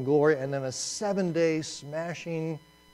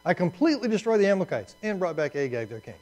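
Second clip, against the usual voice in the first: straight-faced excuse; 3 semitones higher, 3 dB louder, faster than usual. Retold or imitated. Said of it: "how you say this with a straight face".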